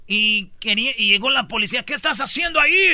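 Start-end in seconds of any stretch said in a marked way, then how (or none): 1.8-2.9 police voice. Retold or imitated. Police voiced in retold story.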